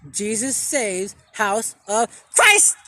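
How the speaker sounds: slow, drawn-out mock preacher, Christ rising; slow it down and lift on Christ; preacher call. Repeating it for viewers, a drawn-out mock preacher call. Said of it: "You gotta say it like that".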